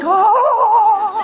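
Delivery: long, loud high-pitched wail; hammed-up scream of terror, loud and high; comic scream. Boy on a runaway tricycle downhill, drawn-out mock scream.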